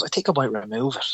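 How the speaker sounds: offhand doctor's suggestion, slightly underplayed; nonchalant, casual. Consultant casually breaking news to patient, nonchalant. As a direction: toss it off as no big deal. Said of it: "the most nonchalant, casual way".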